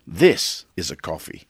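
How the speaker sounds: a light Dundee brag about real coffee; Dundee-style boast. Retold or imitated. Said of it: "Crocodile Dundee of coffee".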